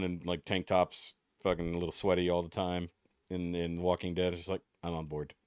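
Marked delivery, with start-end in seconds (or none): 4.8-5.3 put-on lightly drawled country accent; a hint of a Southern country voice. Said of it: "In a country accent".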